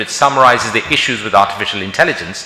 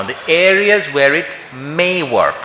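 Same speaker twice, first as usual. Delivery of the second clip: "may" leaned on and drawn out slowly; slow down and weight the word "may"; stress on may; 3 semitones higher, slower than usual. Real, not acted. Lecturer to doctors, stressing "may" slowly. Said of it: "I stress the word may".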